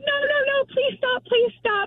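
high-pitched mock panic; re-enacted frantic pleading at an even volume; retold panicked plea. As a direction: beg them to stop, playing it up. Retells begging him to stop shaking.

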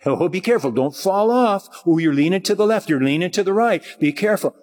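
lightly acted fretful caution, quick in places; mock anxious warning. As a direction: fuss as if someone might slip off a tightrope. Acting out anxious tightrope-walking warnings.

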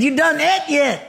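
imitating the redneck cook's rural twang, repeated; redneck accent. Redneck cook repeating his question to the puzzled preacher, redneck accent. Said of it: "they talk with an accent like this".

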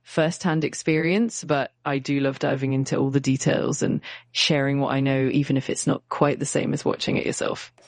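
hammy fake French accent in English; bad French accent. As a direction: lay the French accent on thick and badly. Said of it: "using a really bad fake French accent".

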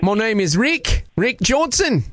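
put-on Australian accent. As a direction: fake Aussie prank caller. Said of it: "using my Australian accent".

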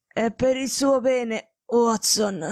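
slow, labored sickbed rasp; gasping. Acted. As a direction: force the words out, short of breath. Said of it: "rantolò". (rantolando, a fatica)

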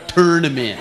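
"Tournament" starting like "turn"; mocked pronunciation. Shown as a demonstration. Comedian repeating the local way, "Tournament" as TURN-a-ment.

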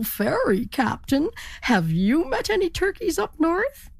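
high, rising, hopeful question; eager turkey. Acted. Turkey eagerly asks the ferry captain, pitched high. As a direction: ask hopefully, climbing high.

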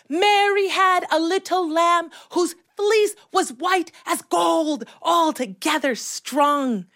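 strong, careful group recital; clearly enunciated. Retold or imitated. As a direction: pronounce each word for someone across the street. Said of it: "clearly. Enunciate the words".

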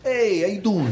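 "Hey" up front, "how you doing" in a light New York Italian style; lightly mocked American Italian greeting, starting on "Hey". Comic comparing with Italians back home, mock New York greeting. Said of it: "And down here they go".

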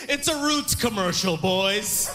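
high mock-villain announcement, falling at the end; gloating villain. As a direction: crow it at the rivals like a hammed-up villain. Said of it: "some light-skinned dude started laughing like a villain".

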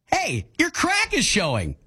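high, slow encouraging call; supportive. Shown as a demonstration. Co-host demonstrating support to the host, supportive. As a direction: stretch it out like praising someone. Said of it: "How do I be supportive?".

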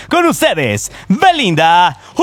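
announcer introduction. Real, not acted. Announcer introduces co-host by name.

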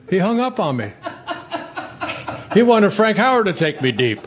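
real amused laugh at his own story. Real, not acted. Telling the interviewer the punchline, laughing.

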